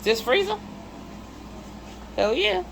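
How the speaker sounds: high and loud, hyped about the freezer; excited showing off. Real, not acted. Showing viewers the freezer she gambled on, thrilled. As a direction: show it off like a prize you won.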